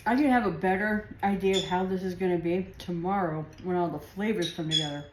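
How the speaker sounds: chewing while talking; mouth full. Real, not acted. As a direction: talk through a bite of food. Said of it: "Talking with my mouth full".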